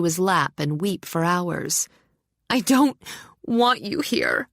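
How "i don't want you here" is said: tearful. A narrator's reading. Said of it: "She was weeping".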